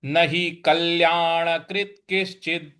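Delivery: न हि कल्याणकृत किश्चिद said slowly with the short i on हि; slow, clear shloka words; careful recitation. Shown as a demonstration. Teacher models the phrase for students. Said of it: "इस प्रकार से बोलेंगे".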